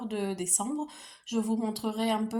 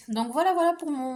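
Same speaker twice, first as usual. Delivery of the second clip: breathless wrap-up; out of breath; 4 semitones higher, 6 dB louder than usual. Real, not acted. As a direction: speak while winded. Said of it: "je suis essoufflée".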